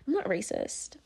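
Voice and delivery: very quiet, nervous mock denial; mock terrified. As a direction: imitate a meek, scared denial under your breath. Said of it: "fucking terrified and shit".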